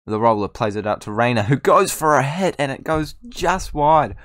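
match commentary rising high to the shot; play-by-play. Acted. Gamer calling the highlight as it rolls, play-by-play. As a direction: build up, then stretch out the near miss. Calls the replay live.

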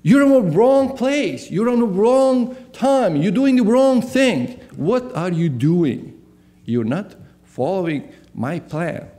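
a touch of the divine reprimand; voice of God. Acted. God telling Elijah he is in the wrong place, mild rebuke. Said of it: "we need to hear that voice".

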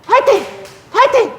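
three high shouted cheers; rally the class with a shout. Shown as a demonstration. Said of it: "이렇게 세 번 외쳐볼게요".

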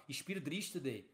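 put-on "It's pure drift today" in a light Irish accent; half-mocking Irish brogue, a bit slow; Irish accent impression, slow. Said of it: "Nesse jeito o cara já nem fala aqui".

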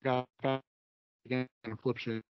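choppy, breaking-up call audio; like a glitchy phone line; scrambled voice. Real, not acted. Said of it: "We still can't understand you".

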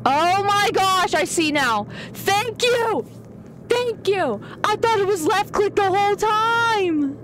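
high, loud burst of realisation; worked-up, high-pitched outcry; too loud. Real, not acted. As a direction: exclaim it high and excited, drawing out the words. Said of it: "you're being too loud".

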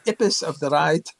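imitated Russian accent, dropped h. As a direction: mimic her Russian-accented English. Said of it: "to put it in her accent".

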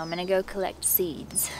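soft unvoiced whisper. Real, not acted. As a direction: whisper it like a secret. Whispered aside.

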